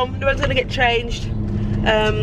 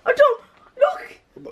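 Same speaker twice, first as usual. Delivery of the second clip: sheepish laugh; much slower than usual. Real, not acted. Boy caught out over mess.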